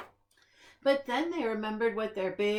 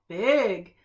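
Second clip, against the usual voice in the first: squeal; 8 dB louder than usual. A narrator's reading. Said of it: "little Gloom squealed".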